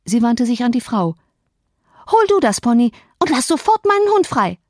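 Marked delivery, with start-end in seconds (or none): 2.1-4.6 put-on high, loud, commanding girl's voice; imperious order. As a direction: command the maid like a mistress. Girl ordering the maid. (hohe, herrische Mädchenstimme)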